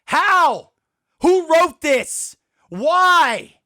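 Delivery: exasperated, drawn-out demands; indignant, punched-out questions; pissed off. Real, not acted. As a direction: demand answers in real anger. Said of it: "I'm pissed".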